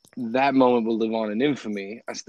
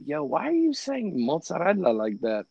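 higher-pitched imitation of baffled Americans; mock someone questioning an odd pronunciation; retold puzzled challenge; 4 semitones higher, 3 dB quieter than usual.

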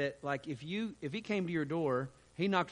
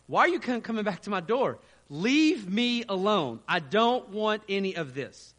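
raised, irritated retort at the door; higher and louder, shooing him off, slowing down; upset; 5 semitones higher, 7 dB louder than usual. Retold or imitated. Leon snapping at the persistent preacher, irritated and loud. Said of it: "Leon just would get very upset with him".

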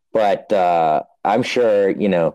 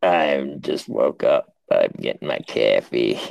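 Aussie Dave; 6 semitones lower than usual. Retold or imitated. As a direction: badly fake a low Aussie accent. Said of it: "Let me break it down".

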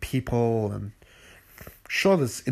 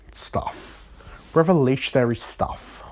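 whisper; 3 semitones higher than usual. Real, not acted. Whispering about his podcast.

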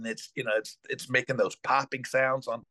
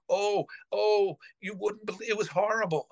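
put-on upset old nanny; 8 semitones higher than usual. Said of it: "Shirley freaking out".

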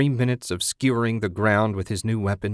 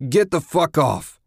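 loud, raised-pitch furious bellow; 7 semitones higher, 5 dB louder than usual. A narrator's reading. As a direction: bellow it at the attackers. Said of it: "he bellowed".

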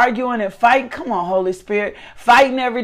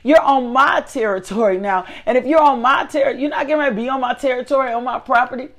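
confronting intruder. Retold or imitated. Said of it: "looking at him like".

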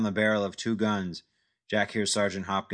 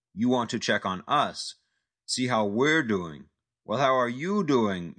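mocking taunt; 2 semitones higher, 3 dB louder than usual. Mocking thug taunts Jack.

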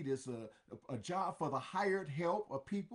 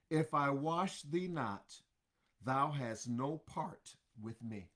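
Jesus answering gently; 3 semitones lower than usual. Acted. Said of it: "Jesus says it just like this".

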